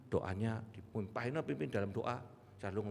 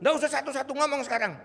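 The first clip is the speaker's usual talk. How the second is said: impatient urging; 13 semitones higher, 10 dB louder, faster than usual. Retold or imitated. Pastor urges patients to speak up.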